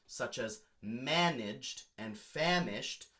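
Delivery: managed and famished said slowly; slow rhyme demo. Shown as a demonstration. Teacher slowly sounding out an imperfect rhyme. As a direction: draw out the matching vowels. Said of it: "Same vowel sounds".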